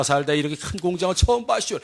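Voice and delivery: mild rural dialect impression; imitating cousin. Cousin marvels to villagers at the factory, lightly imitated. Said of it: "저 비슷해요?".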